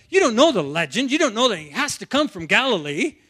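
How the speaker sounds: mock scolding, a touch indignant; mildly worked-up telling-off; going off, acted. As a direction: act out officials berating a crowd. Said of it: "they just go off on the crowd".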